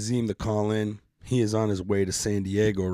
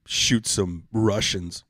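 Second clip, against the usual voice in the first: ordinary talk, nothing marked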